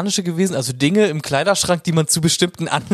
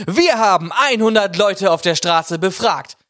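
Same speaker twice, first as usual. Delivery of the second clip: langsam, getragen wie ein Gameshow-Moderator; Quizmaster-Stimme; 3 semitones higher, slower than usual. Shown as a demonstration. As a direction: feierlich angesagte Quizformel. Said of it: "ich werde jeden Satz immer anfangen mit". (Fernsehquiz-Moderator, langsam)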